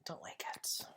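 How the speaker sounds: unvoiced whispered aside; hushed muttered aside. Real, not acted. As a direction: whisper it to yourself.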